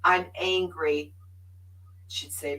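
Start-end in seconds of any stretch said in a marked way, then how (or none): 0.0-1.1 mock frustration. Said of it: "I said".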